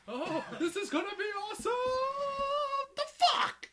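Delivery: high, sudden shocked cry; surprised outburst. Real, not acted. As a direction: blurt it out in shock. Reacting to the movie scene.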